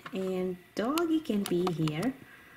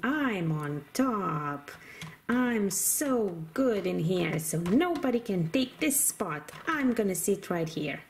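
lower, stubborn doggy voice with woofs; cheeky toy doggy; 3 semitones lower than usual. Pretend. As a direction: play a defiant little dog.

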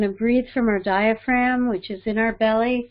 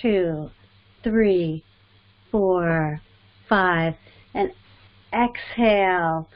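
guided breathing; 2 semitones lower than usual. Acted. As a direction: lead them calmly through each breath. Leads a breathing exercise.

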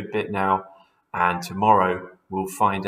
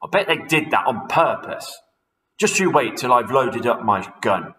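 mild angry threat; 2 semitones higher, 5 dB louder than usual. Acted. Mister Twit threatens birds.

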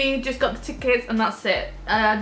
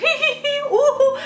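excited giggle; 14 semitones higher, 5 dB louder than usual. Real, not acted. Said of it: "this is how I get".

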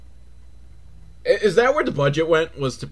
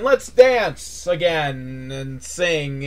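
slow, drawn-out invitation; mock glee winding down; much slower than usual. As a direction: let the cheer sag as you stretch it. Fake cheer running out of steam.

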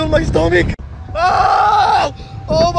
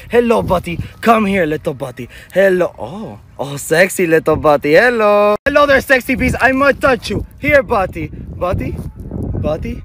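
put-on baby talk to a pet; 6 semitones lower than usual. Cooing at a toy dinosaur.

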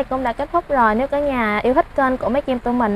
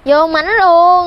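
excited exclamation; 6 semitones higher, 8 dB louder, much slower than usual. Real, not acted. Reacting while eating snails.

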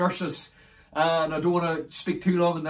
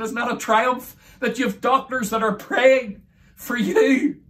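raised, emphatic testimony; exultant preaching; 3 semitones higher than usual. Real, not acted. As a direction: preach it with rising triumph.

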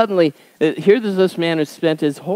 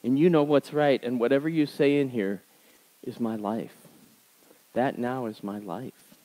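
quiet, sincere prayer, softer; surrendering prayer; 4 dB quieter than usual. Retold or imitated. Speaker surrendering to God in prayer, hushed and sincere. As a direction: give in to God, gently. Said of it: "what I said was".

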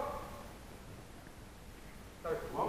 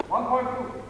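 booming fighting game announcer; 4 semitones higher, 4 dB louder than usual. Real, not acted. Referee calling bout commands loudly.

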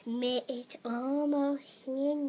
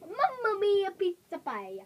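light mock Italian accent; playful Italian accent, toy voice; 2 semitones higher than usual. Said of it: "you have one heck of an accent".

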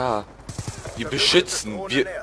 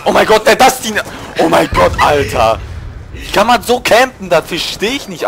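outraged gamer; 4 dB louder than usual. Real, not acted.

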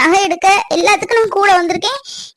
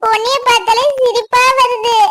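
put-on teasing girl; 5 semitones higher than usual. Girl teases Ponni again.

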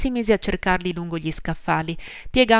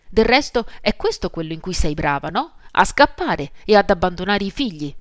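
louder, furious, throwing her out; angry outburst; 3 semitones higher, 4 dB louder than usual. Acted. Mother drives her sister out, angry and louder. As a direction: spit it out as a cruel accusation.

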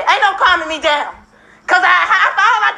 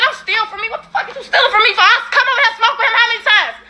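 1 hollering; 5 semitones higher than usual. Real, not acted. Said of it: "Why you hollering?".

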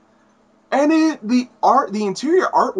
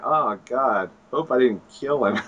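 worried Spider-Man; 4 semitones lower than usual. Retold or imitated. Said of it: "he's going".

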